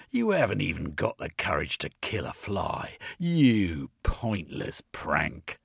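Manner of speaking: slow, sneering insults; contemptuous inspector. Acted. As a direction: drag out each insult with disgust. Inspector berating Jeremy.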